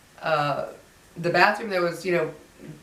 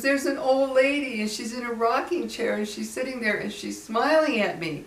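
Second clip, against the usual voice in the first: higher voice, lightly acted fear; imitated frightened son; 6 semitones higher than usual. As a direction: retell it as a scared child, understated. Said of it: "he was shaking and crying".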